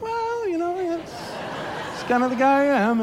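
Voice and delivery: high, laughing mock-modest brag; mock smooth. The speaker showing off his niece to the girls, mock-smooth brag. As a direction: play it cool, fishing for admiration. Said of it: "And I'm like".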